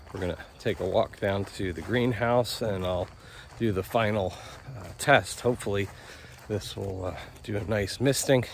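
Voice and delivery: talking while walking, jostled; on a bumpy road. Real, not acted. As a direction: voice jolted by each step. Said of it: "Sorry for the, uh, bumpy ride here".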